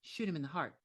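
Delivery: a quiet, matter-of-fact order; very calmly. Retold or imitated. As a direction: say it evenly and calmly, as if it's nothing. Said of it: "very calmly".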